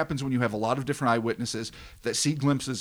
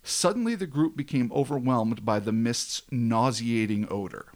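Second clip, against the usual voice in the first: dramatic story narration; slower than usual. A narrator's reading. Host tells podcast listeners of the nauseating mist, dramatic narration. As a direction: narrate an eerie tale.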